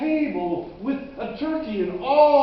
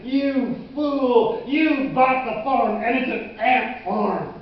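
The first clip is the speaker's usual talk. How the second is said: louder, jeering ridicule; loud gleeful mockery; mocking, cackling taunt; 2 semitones higher, 5 dB louder, slower than usual. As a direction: crow over a fool's mistake. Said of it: "it started cackling and laughing".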